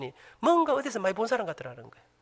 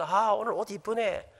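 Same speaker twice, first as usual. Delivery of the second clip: slow compliment; 4 dB quieter, slower than usual. Retold or imitated. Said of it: "경상도 사람들은".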